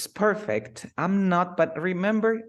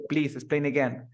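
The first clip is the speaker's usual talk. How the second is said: "Please explain again" said as a flat order; commanding tone. Shown as a demonstration. Teacher models a rude command, curt and bossy.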